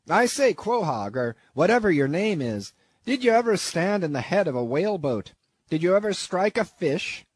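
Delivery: put-on an old whaling captain hailing a new harpooneer, rising loud by the end; gruff old captain. Captain Peleg hailing Queequeg across the deck, brash and loud. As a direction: call out like a sea captain sizing up a recruit.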